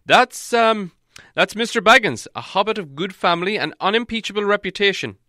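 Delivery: high, loud, hesitant wizard; wizard making introductions. A narrator's reading. Wizard presenting hobbit to huge man, high and careful. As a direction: introduce politely, faltering at first.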